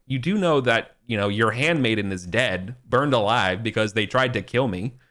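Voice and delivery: mild retold anger. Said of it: "Arthur's getting kinda mad".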